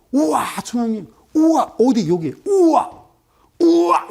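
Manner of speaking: high, loud mock-awed whoops; amazed outburst. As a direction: exclaim "wow" in exaggerated amazement. Acts out amazed reaction to price spike.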